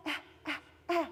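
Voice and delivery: soft, timid "Eh, eh, eh"; shy whisper. Shown as a demonstration. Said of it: "They may whisper it".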